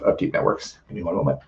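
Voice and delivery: hoarse, fading voice; losing voice. Real, not acted. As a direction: voice giving out, hoarse. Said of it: "seem to be losing my voice".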